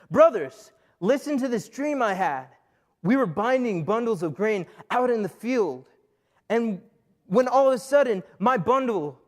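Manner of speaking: a hint of self-important young Joseph; lightly acted Joseph. Joseph tells his brothers his dream, lightly self-important. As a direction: proclaim the dream with a touch of pomp. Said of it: "this is what he's telling to his brothers".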